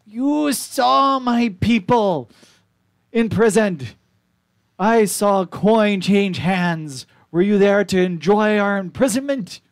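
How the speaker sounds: high, slow, loud accusation; accusing pebble elder. Acted. Pebble elder accuses the party of watching, high and slow. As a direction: demand an answer like a wronged elder.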